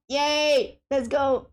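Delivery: a real little victory shout; excited cheer. Real, not acted. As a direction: whoop as you break free. Cheering after getting free.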